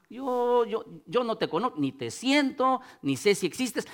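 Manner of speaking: soft, halting admission; honest prayer. Shown as a demonstration. Preacher voices a seeker speaking to God, hushed honest prayer. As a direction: model a doubter praying quietly.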